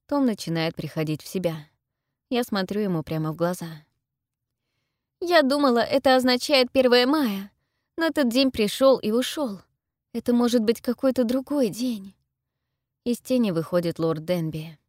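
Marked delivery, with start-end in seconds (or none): 5.2-12.1 high, raised, anxious explanation; loud, pressing higher voice; urgent explaining. A narrator's reading. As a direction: reason with them urgently. Heroine explains urgently to captors.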